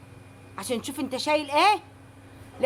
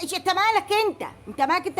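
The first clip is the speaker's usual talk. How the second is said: indignant snap; 5 semitones higher, faster than usual. Acted. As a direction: bite back at him, offended. Snapping at nosy delivery man.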